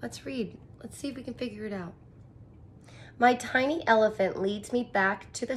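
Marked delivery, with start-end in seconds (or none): 0.0-1.9 whisper. Real, not acted. Teacher whispers to class.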